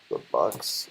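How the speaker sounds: talking through a burp; words pushed out on a burp. Real, not acted. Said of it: "talking while burping".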